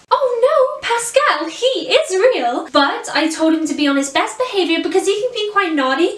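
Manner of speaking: put-on animated princess storytelling in an American accent; Rapunzel. Telling kids that the teddy Pascal is real, in an American accent. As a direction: explain it to children in a lively American accent. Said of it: "permitted to do an American accent".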